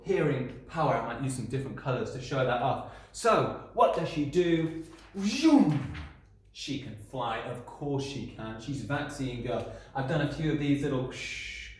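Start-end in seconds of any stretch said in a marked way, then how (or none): 5.2-5.9 a loud, high whoosh of take-off; hammed-up superhero zoom; zoom effect. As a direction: launch her into the sky with the word. Superhero flies off, sound effect.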